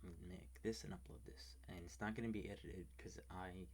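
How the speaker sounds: hushed whisper for ASMR. Real, not acted. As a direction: whisper so the roommate sleeps. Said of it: "I'm whispering because".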